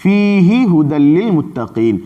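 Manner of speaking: "فیہ ھدی للمتقین" recited slowly as one phrase; slow Quranic recitation. Shown as a demonstration. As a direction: chant "فیہ" joined onto "ھدی للمتقین". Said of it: "اور فیہ کا تعلق ھدی للمتقین سے".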